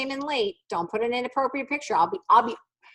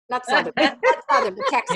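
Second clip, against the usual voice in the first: laughing correction; 4 semitones higher, 4 dB louder than usual. Real, not acted. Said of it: "I want a Southern accent".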